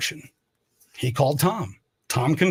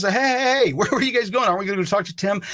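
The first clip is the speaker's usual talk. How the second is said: higher, eager hey hey to the crew; eager calling out; 4 semitones higher than usual. Retold or imitated. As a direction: call after the coworkers as they walk off. Voices himself calling to coworkers.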